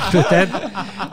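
said through a real laugh. Real, not acted. Podcast guest to host, answering through laughter. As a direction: still laughing at the Gay New Yorker joke.

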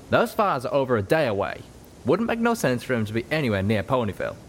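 lightly voiced cowpony, confident; Calamity, matter-of-fact. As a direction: brush off the worry. Calamity explains the fires.

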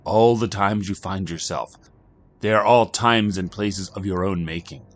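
measured and ominous, slowing down; cryptic stranger. Acted. Kino lectures Jack.

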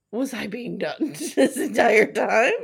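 acted disbelief breaking into laughter; giggly mock realization; laughing mock question. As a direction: crack up while delivering the quote. Laughing through an acted quote.

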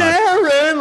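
very high, loud imitated holler; yelling out. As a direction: belt the name out like a heckling fan. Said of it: "somebody did yell out".

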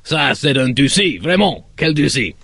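hammed-up French exclamation; admiring Frenchman, lightly done; a touch of French accent; mock French. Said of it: "and say".

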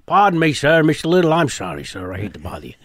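lightly voiced Columbo, deferential and apologetic; a hint of the rumpled detective begging pardon; Columbo impression. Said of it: "I went to the show dressed up as Columbo".

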